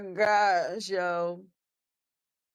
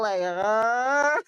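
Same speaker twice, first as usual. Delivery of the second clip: wounded mammal groan; 3 dB louder than usual. Retold or imitated. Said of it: "She sound like a wounded mammal".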